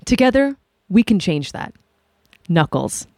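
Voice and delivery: sponsor ad voice; mock ad read. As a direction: read it like a cheesy sponsor spot.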